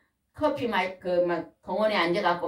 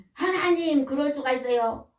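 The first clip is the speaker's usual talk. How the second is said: higher pleading complaint to God; aggrieved plea; 6 semitones higher than usual. Acted. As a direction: beg God to explain a sick son.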